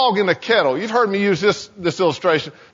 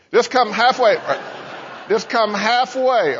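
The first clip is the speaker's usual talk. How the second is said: coaxing little voice; 4 semitones higher than usual. Acted. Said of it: "this little voice that says".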